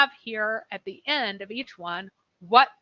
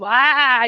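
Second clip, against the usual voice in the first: short furious yell of rage; angry scream; 3 semitones higher, 12 dB louder than usual. Retold or imitated. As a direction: bark out a raging cry. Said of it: "he's just screaming and angry".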